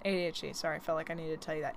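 fast, soft retainer lisp. Real, not acted. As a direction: mumble past a retainer. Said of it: "I have a retainer in".

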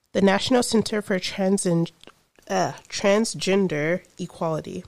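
talking around chewing gum; words mushed by gum in mouth; mouth full. Real, not acted. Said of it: "I have gum in my mouth".

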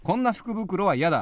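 steady quiz host reading; topic announcement. Shown as a demonstration. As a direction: announce the prompt clearly. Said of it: "お題がこちら".

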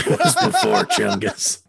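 slow, laughing ranter echo; Alex Jones, slow. Shown as a demonstration. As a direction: stretch it out slowly, half laughing. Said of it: "Alex Jones' voice".

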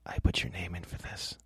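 low, hushed menace, almost whispered; a hushed threat to the grip on set; Sean Penn's quiet character voice. Retold or imitated. Hushed menacing character voice, to the grip on set. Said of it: "in character".

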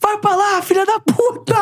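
high, hammed-up angry yell; angry insult. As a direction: scream it like a raging fan. Retold chat insults.

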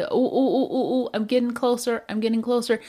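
bright, eager, laughing realization; light-bulb moment, half laughing; eager self-discovery with a laugh; excited discovery. Pretend. Imagined self discovering the cause.

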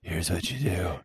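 mock-instructor voice for a demonstration; put-on explaining voice. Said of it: "I'll do it in this voice".

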